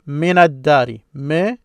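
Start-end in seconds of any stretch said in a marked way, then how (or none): 1.1-1.6 teacher modelling مِنَ; demo Arabic syllable. Shown as a demonstration. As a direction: sound out مِنَ clearly. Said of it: "this is what you hear".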